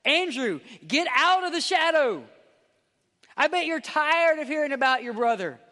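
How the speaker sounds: loud, high, insistent goading; pushy world's voice. Acted. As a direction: egg someone on to grab the limelight. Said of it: "In a world that says".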